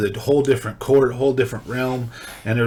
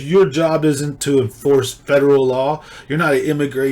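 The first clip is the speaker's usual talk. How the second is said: retold reaming; 3 semitones higher, 5 dB louder than usual. Judge reaming the cop, mock-angry. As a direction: lay into him like the judge did. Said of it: "the judge just reamed him".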